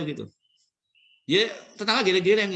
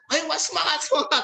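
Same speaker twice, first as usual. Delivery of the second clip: urging cheer; 8 semitones higher than usual. Retold or imitated. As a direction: push her on. Cheering the pushing mother.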